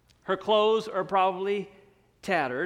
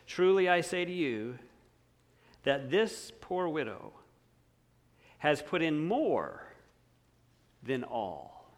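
softer, slow, hushed reading of the verse; quiet solemn reading; 5 semitones lower, 6 dB quieter than usual. Shown as a demonstration. Preacher reading the verse to the congregation, soft and slow. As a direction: read the words of Jesus gently, letting them sink in. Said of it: "in case you doubt".

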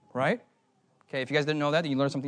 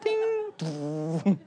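elevator ding. Pretend. Elevator arrives in imagined scene.

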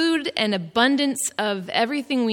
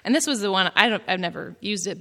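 ordinary delivery

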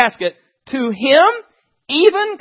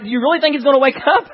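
scoffing laugh; 3 semitones higher, faster than usual. Acted. Scoffing mourner in crowd.

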